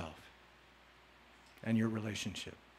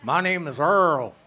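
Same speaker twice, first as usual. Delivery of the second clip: slow, louder, mock-proud My name is Earl; 4 dB louder than usual. Shown as a demonstration. Joking about the questioner's name, slow mock-proud announcement. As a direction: announce it slowly like a hammed-up tough guy. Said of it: "If you got a name like Earl, you gotta talk like that".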